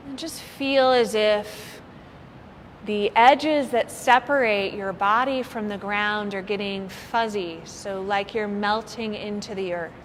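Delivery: unhurried meditation guide with long pauses; lightly held yoga nidra voice; guided meditation. Real, not acted. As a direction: ease listeners into relaxation, phrase by phrase. Leads a guided body-scan relaxation.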